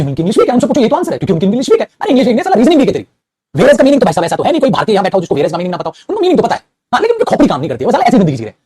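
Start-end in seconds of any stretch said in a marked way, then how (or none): 2.0-8.6 animated, exasperated scolding. Real, not acted. Teacher berating students for weak reasoning, scolding. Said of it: "अभी से डांट रहे हो".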